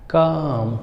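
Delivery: काम with long aa and no l; teacher demo of calm; silent l. Shown as a demonstration. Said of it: "C A एल M".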